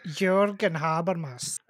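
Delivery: "Jürgen Habermas" said slowly the German way, with a Y sound for the J of "Jürgen"; careful German pronunciation shown to a colleague. Shown as a demonstration. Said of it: "You gotta say".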